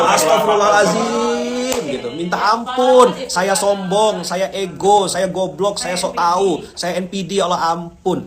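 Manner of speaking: slow, high pleading prayer voice; repentant plea. Pretend. Preacher acting out a pilgrim's plea, pleading slowly. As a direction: beg forgiveness, slow and high.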